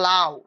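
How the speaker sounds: লাউ with আ and উ gliding as one; two vowels together. Shown as a demonstration. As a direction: run আ into উ in a single syllable, লাউ. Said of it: "দুইটা একত্রে উচ্চারণ হচ্ছে". (লাউ-এর দুই স্বর একত্রে উচ্চারণ)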